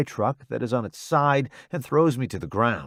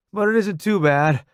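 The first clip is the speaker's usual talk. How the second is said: higher, louder soldier voice; Roddy; 6 semitones higher, 4 dB louder than usual. Acted. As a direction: reassure through the pain.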